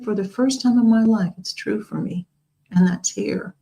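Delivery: moved, holding back tears; tearful. Real, not acted. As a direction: voice catching, close to tears. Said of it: "I get a little weepy".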